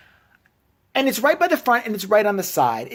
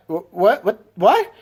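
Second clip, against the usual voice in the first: stunned disbelief; 2 semitones higher, 4 dB louder, slower than usual. Retold or imitated. Disbelief at news.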